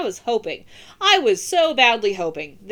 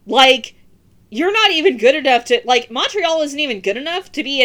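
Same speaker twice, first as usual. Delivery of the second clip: louder, higher ranting jab; 3 semitones higher, 5 dB louder than usual. Real, not acted. Mocking Montreal to podcast listeners, loud. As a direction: raise your voice to mock. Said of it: "ranting at Montreal".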